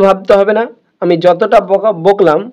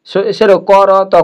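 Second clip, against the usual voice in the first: slow demo; much slower than usual. Shown as a demonstration. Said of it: "তখনও হলো না".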